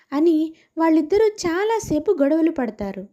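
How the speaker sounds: usual speaking voice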